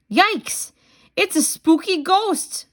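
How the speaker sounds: high, mock-scared yikes; mock scream. Parent reading to child, Pete's hammed-up frightened squeal. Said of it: "screams Pete".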